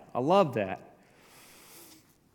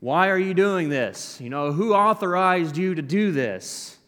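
delegation challenging; 4 semitones higher, 4 dB louder than usual. Retold or imitated. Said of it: "this delegation being like".

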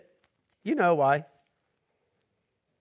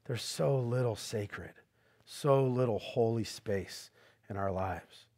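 slow emphatic; 6 semitones lower, 10 dB quieter, slower than usual. Shown as a demonstration. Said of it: "slow emphatic preaching".

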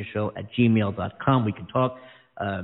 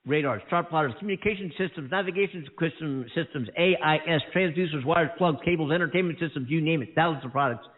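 ad read. Acted. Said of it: "How was that?".

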